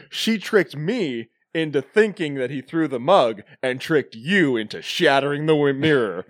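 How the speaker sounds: slow, hammed-up explanation; imitating accusing professor. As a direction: lay it out in mock-dramatic earnest. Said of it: "he's like".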